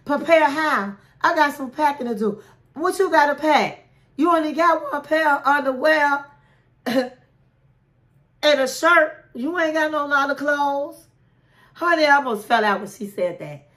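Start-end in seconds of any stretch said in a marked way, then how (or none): 0.0-11.1 mock snapping off. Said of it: "She was snapping off".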